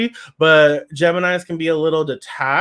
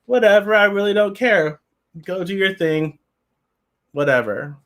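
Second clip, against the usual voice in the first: mock offhand brush-off, starting higher, then dropping; dismissive indifference; 4 semitones higher than usual. Reader acting out a detached communicator, dismissive indifference. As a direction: act out not caring, letting it tail off. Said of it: "Or am I like".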